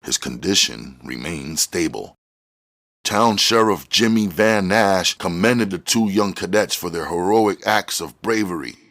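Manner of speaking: plain reading voice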